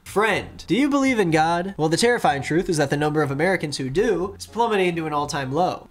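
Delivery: preachy fundraising-text read; mock preaching. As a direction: deliver it like a fervent preacher. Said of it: "I seem like I'm preaching".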